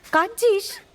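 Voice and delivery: alarmed concern. Acted. Alarmed to find Rimpi crying.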